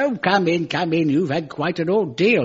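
lightly voiced plummy British diplomat; a hint of a genteel host; posh consul. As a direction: welcome them like a gracious old-school consul. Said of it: "He said".

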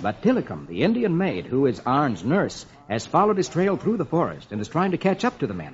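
quiet suspenseful storytelling; hushed storytelling. Acted. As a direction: draw the kids into suspense. Softer dramatic story narration.

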